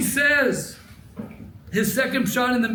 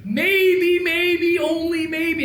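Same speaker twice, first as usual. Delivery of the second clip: gentle tentative maybe; 8 semitones higher, slower than usual. Shown as a demonstration. To the congregation, a sensitive tentative maybe. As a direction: offer each maybe gently, pitched up. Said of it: "I say maybe with sensitivity".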